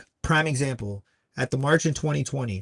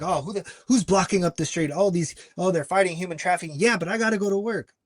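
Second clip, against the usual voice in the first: higher-pitched mock griping driver; annoyed complaint; 5 semitones higher, faster than usual. Blocked drivers complaining about the marchers, annoyed. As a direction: imitate impatient people held up in traffic.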